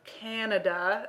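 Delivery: "Canada" drawn out slowly with a sceptical rise; air quotes. Shown as a demonstration. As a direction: say "Canada" as if in scare quotes, slow and doubtful. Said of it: "I'm doing big air quotes there".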